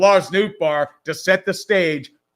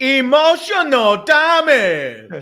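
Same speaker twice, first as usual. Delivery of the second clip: put-on slow, high drawn-out meme accent; mock Asian accent; 8 semitones higher, 4 dB louder, much slower than usual. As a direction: stretch it out like the meme. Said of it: "You can do it better".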